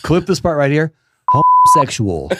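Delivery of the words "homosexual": very high, slow camp voice; mock high camp delivery; mock flamboyant voice. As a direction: ham it up as a camp caricature. Joking voice for a bleep.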